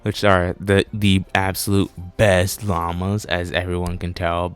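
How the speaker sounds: loud, over-the-top fake enthusiasm; sarcastic. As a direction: gush like you love them, mocking. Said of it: "enough with the sarcasm".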